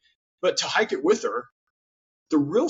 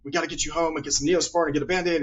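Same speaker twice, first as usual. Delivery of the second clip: panicky; 3 semitones higher, faster than usual. Retold or imitated. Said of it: "and they get panicky".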